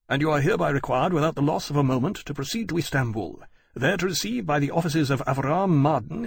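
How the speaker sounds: brisk, official recitation; formal written orders. A narrator's reading. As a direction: read it out like a formal military dispatch. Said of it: "in the abrupt style of formal orders".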